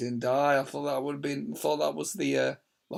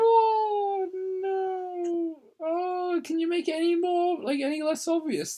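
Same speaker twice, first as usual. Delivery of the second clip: mock disgust; 11 semitones higher, slower than usual. Real, not acted. Mocking a pervy character.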